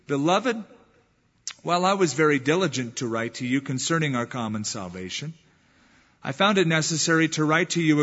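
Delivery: scripture reading. Acted. Preacher reading Jude's letter aloud to the church, solemn scripture reading. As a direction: read the letter of Jude to the congregation, solemn and measured.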